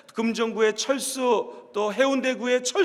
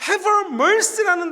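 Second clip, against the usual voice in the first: slow emphasis; 5 semitones higher, 3 dB louder, much slower than usual. Shown as a demonstration. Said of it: "slowed for emphasis".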